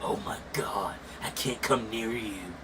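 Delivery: hushed, mock-awed anime line; mock anime talk. Imitating chat kids gushing over aura, mock anime awe. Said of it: "talking like this is anime".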